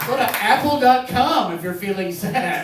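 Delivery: slow, laughing mock-announcer read; laughing mock ad line. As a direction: parody the ad while laughing. Mocking the ad line.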